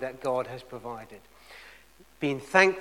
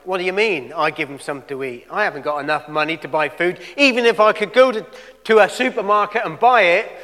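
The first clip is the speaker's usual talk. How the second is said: indignant protest; 8 dB louder, faster than usual. Retold or imitated. Disciples objecting to Jesus about feeding the crowd, indignant protest. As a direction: protest in disbelief, building in pitch and volume.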